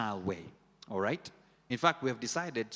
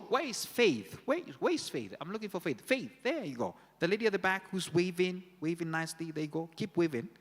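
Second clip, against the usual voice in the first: raised, searching call, higher through the lines; calling out for Faith; 6 semitones higher than usual. Real, not acted. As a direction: call out to spot her in the crowd.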